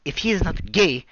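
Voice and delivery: light Nigerian accent imitation, laughing; mock the guy with a Nigerian accent, cracking up. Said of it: "thick Nigerian accents".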